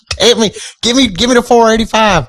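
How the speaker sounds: very high country twang; hammed-up Southern woman bossing an assistant; squeaky-high imitation of a Southern accent; twangy Southern wife. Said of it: "about as twangy as they come".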